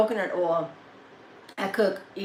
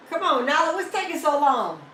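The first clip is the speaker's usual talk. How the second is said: high sing-song coaxing; coaxing the dog; 7 semitones higher than usual. Real, not acted. Owner coaxing her dog into the room, high and sweet.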